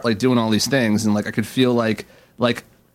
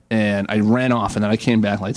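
ordinary delivery

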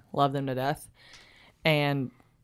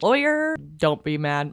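high slip of the tongue. Real, not acted. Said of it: "why do I keep saying his name".

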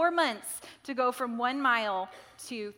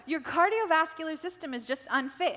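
imitated New Zealand accent, higher and louder; 6 semitones higher, 5 dB louder than usual. Friend telling her she is unfit, imitated New Zealand accent. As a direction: put on a crisp New Zealand accent for the diagnosis. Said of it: "you say that in a nice accent".

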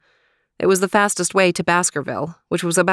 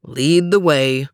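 slow, louder command; ordering; 2 semitones lower, 5 dB louder, slower than usual. Acted. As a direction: give a measured order as leader. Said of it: "ordered Overton".

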